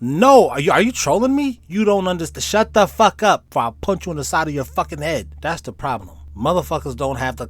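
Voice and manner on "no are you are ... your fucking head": mock angry outburst. Heated rant at imagined troll.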